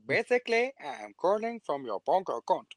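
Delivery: put-on African scam caller accent; mock African accent. Scam caller explaining a bank problem, in a mock African accent. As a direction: imitate a phone scammer in an African accent. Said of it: "the one African accent you can do".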